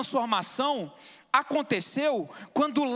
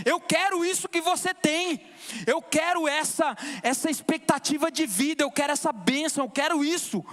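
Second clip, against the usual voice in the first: fervent, higher-pitched testimony; impassioned preaching; 4 semitones higher than usual. Real, not acted. Preacher telling how he wanted that blessing, impassioned. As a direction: press each longing on the congregation. Preaches his longing to congregation.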